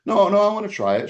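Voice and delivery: mock-whiny high plea, a bit quick; hammed-up girlish insistence; pleading girl. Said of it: "She's like".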